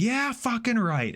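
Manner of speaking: mock sneer, high and drawn out; scornful retort. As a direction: imitate her dismissive comeback slowly. Acted quarrel, wife's scornful retort.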